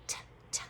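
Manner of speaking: T as a short voiceless tap, repeated; letter sound. Shown as a demonstration. Teacher makes the sounds while writing, T sounded alone. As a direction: isolate the final T sound softly. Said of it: "I'm gonna make my sounds".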